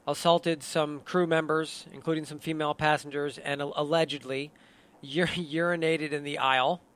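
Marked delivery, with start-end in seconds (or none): 5.0-6.8 laughing. Real, not acted. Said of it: "Hard to say without laughing".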